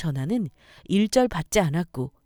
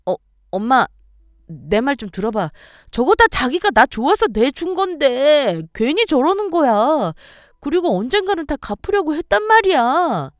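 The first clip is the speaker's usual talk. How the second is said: higher, louder pleading whine; whining excuses; 7 semitones higher, 7 dB louder than usual. Acted. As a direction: plead with mom. Daughter pleads excuses to mother. (엄마에게 변명하며 징징)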